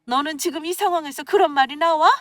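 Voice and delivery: high-pitched, indignant scolding; mother's sudden outburst, acted without full volume; angry yelling. A narrator's reading. Mother yelling at her daughter for still wanting this marriage, angry scolding. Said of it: "엄마가 갑자기 소리를 꽥 하고 지르시는".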